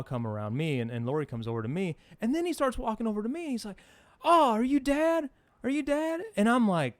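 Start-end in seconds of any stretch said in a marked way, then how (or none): 4.2-6.2 high, slow, mock-friendly "are you Dad"; imitating a pushy stranger, pitched up; mock beggar. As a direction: play the sly stranger sidling up. Mimics beggar approaching dad.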